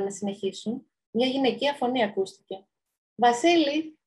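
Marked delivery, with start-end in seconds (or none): 3.1-4.0 higher-pitched call to someone. Acted. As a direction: call him over, lightly acted. Woman calls to Vasili. (φωνάζει κάποιον με το όνομά του)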